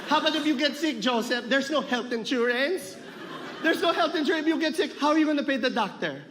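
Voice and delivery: high, worried questioning. Acted. A relative questions Joseph about his lack of health insurance, worried. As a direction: ask it high and concerned, in character.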